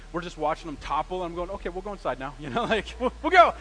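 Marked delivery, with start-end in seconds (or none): 1.5-2.3 softer, sheepish giving in; meek understatement. Retold or imitated. Tent blows away, calm. 3.0-3.5 much higher and louder, stammering in a rush; hammed-up panic to get inside; panicked agreement. Same line, panicked version.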